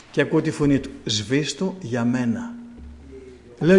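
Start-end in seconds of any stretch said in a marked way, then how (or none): 1.0-2.5 gentle plea. Retold or imitated. Jesus's voice asks him gently.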